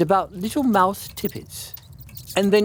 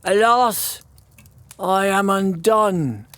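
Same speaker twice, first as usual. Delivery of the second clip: sad despair; 3 semitones higher, slower than usual. Acted. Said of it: "said the tailor of Gloucester, and went sadly to bed".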